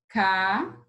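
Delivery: "Casa" with a long pause between ca and za; syllable by syllable. Shown as a demonstration. Teacher showing two mouth openings, "Casa" split apart. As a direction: draw out "Casa" as two isolated beats. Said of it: "você abre a boca duas vezes".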